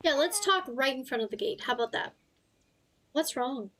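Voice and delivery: lightly put-on character voice; Beck. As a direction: hold a throat-straining character voice. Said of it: "Beck's voice in particular".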